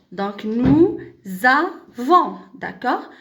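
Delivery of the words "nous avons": "nous avons" in pieces, z opening "avons"; liaison with z. Shown as a demonstration. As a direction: pause after "nous", then z into "avons". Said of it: "ça se prononce".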